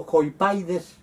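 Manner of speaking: "joipaides" drawn out slowly; careful slow "joipaides"; slow Greek demo. Shown as a demonstration.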